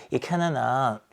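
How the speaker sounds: normal talking voice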